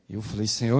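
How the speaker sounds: usual speaking voice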